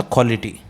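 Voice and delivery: क्वालिटी as "kholity", no W sound; KH pronunciation. Shown as a demonstration. Teacher showing pupils the right pronunciation, क्वालिटी as "kholity". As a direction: open क्वालिटी with an airy KH, "kholity". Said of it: "right pronunciation है, क को भी ख बोल देते हैं".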